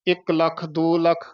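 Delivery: ਲੱਖ with a held, doubled "kkh"; tight consonant. Shown as a demonstration. Teacher counting lakhs as example, tightened consonant. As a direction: press hard on the "kkh" of ਲੱਖ. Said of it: "ਇਹ ਲੱਖ ਕੱਸ ਕੇ ਬੋਲਣਾ ਹੈ".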